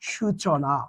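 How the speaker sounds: সূচনা said softly, short উ; pronunciation demo. Shown as a demonstration. Teacher to students, finishing the সূচনা example. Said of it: "তাহলে এটা উচ্চারণ হবে".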